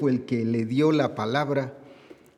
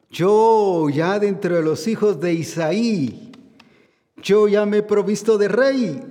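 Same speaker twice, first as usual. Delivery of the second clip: louder, higher triumphant proclamation; booming preacher's declaration; proclaiming; 5 semitones higher, 4 dB louder than usual. Shown as a demonstration. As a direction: thunder God's promise to the congregation. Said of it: "¡Oh, qué tremendo!".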